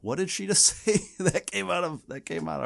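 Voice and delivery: the audience reacting in mock shock; shocked onlookers. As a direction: gasp it out like the whole room froze. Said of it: "freaks out, like".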